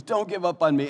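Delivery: acted-out heartfelt begging; pleading. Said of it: "Just pleading this".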